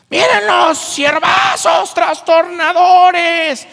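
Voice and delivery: high, slow, loud shrieking yell; possessed girl yelling. Acted. Possessed girl yelling at the servants, slow high shriek. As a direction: stretch the shriek out slowly. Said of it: "les gritaba".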